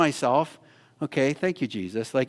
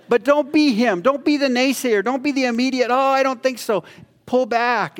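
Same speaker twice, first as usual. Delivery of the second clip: higher, louder exhortation with a laugh; preaching at full force; 9 semitones higher, 4 dB louder than usual. Real, not acted. Preacher warning the church against naysaying, loud and high. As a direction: push it hard, half laughing.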